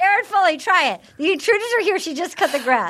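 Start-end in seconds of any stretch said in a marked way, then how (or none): 1.1-2.9 attempted Australian accent. Shown as a demonstration. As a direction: have a go at an Aussie accent. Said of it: "with an Australian accent, please".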